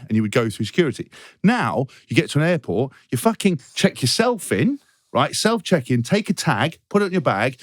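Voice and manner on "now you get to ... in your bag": comic outrage, pitch climbing on key phrases; worked-up, incredulous complaint; exasperated rant. Real, not acted. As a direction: rant in disbelief at a pointless system. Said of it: "the speaker's rant".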